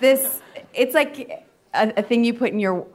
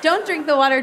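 higher-pitched mock British accent; 7 semitones higher, 3 dB louder than usual. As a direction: warn them like a British safety guy. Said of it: "Do it in the accent".

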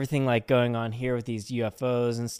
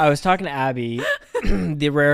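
laughing; 3 semitones higher, 5 dB louder than usual. Real, not acted. Laughing while telling his story.

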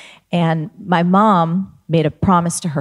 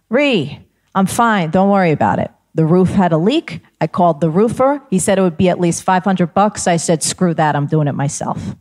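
a touch louder, brushing it off; mock yell down; 3 dB louder than usual. Mom on the roof calling down to daughter, lightly raised. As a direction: call down breezily, no big deal. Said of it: "And she yells down".

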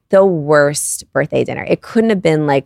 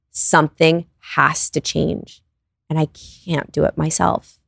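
slow, soft retelling of a desperate prayer; understated despair, drawn out word by word; desperate plea retold; 3 dB quieter, slower than usual. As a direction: plead slowly to God, with restraint. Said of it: "up all night on the floor crying".

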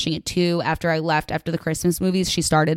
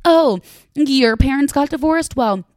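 mocking one-upper; 7 semitones higher, 4 dB louder than usual. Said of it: "that's how I felt we acted".

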